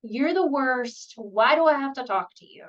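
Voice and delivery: sulky, loud protest; angry defiant kid. Acted. Kid in therapy snapping at the provider, defiant. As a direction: push back like a kid forced into therapy. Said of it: "attitude is like".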